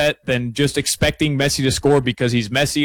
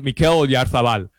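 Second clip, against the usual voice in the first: a name slipping into a Spanish accent out of habit. Real, not acted. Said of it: "I'm saying it with a Spanish accent".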